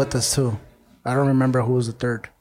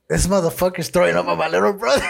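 laughing; 5 semitones higher than usual. Retold or imitated. Hears gagging, laughs retelling.

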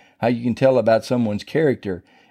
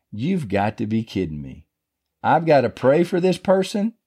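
retold disbelief. Preacher replaying his reaction to praying for the culprit, mock disbelief. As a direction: start under your breath, lift into incredulous protest. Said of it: "That is what went on in my head".

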